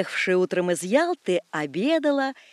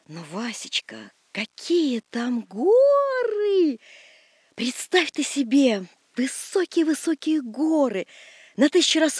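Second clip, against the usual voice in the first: excited; 3 semitones higher, slower than usual. Acted. Wife enthuses about mountains.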